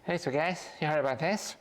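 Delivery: high-pitched, badly faked talk-show host impression; hammed-up monologue opener, voice pushed high; Jay Leno. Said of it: "that's a terrible Jay Leno impression".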